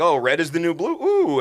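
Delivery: gushing and breezy, the ooh leaping high and loud; mock airhead shopper. Mocking spaceship people who only care about new clothes, gushing. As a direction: play a shallow consumer thrilled by a color swap. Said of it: "They're like".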